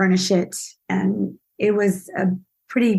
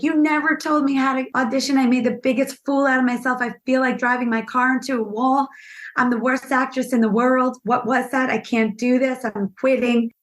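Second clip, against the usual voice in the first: higher-pitched mock despair; retold distraught complaint; 4 semitones higher than usual. Actress phoning her acting teacher after a failed audition, in mock despair. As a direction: replay a panicked rant to a teacher.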